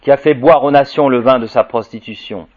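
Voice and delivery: measured, ringing proclamation of prophecy; solemn scripture reading. Acted. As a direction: proclaim the apocalyptic text to the room. Reads Apocalypse aloud to audience.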